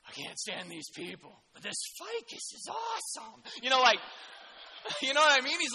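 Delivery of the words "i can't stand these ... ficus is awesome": mock Jonah. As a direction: jump way up on the ficus line, mock delight. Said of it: "The guy's like".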